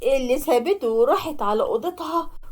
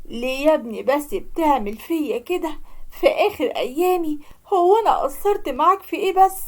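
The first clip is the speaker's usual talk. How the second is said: tearful pleading. Acted. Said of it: "قعدت تعيط".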